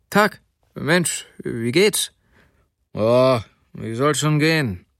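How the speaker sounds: lightly voiced buddy chat, pitch jumping on the greeting; two chums meeting, lightly acted; casual street greeting. A narrator's reading. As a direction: greet an old acquaintance, lightly in character. Two acquaintances chat at night.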